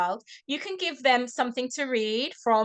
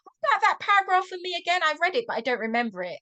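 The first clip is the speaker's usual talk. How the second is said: mock excited parent; 3 semitones higher, faster than usual. Shown as a demonstration. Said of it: "Or maybe you can say".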